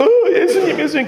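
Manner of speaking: high, whimpering cry; acted tearful calling. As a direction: call out as weeping Mary. Weeping Mary acted at the tomb.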